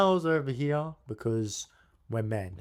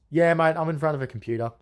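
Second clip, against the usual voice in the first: a touch higher, impatient mate voice; impatient tradesman; 5 semitones higher, 5 dB louder, faster than usual. Retold or imitated. Busy owner brushes off the cold caller, impatient and higher. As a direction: hurry the caller along, a bit higher. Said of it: "I'm gonna do an impersonation".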